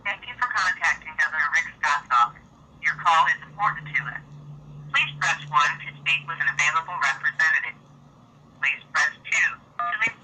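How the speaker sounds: recorded automated phone greeting; phone menu voice. Acted. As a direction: read it like a call menu recording.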